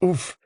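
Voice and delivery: high, soft mock grunt; playful, theatrical oof; dramatic oof. A narrator's reading. Girl flops onto sand, dramatic oof. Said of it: "flopping onto the sand with a dramatic".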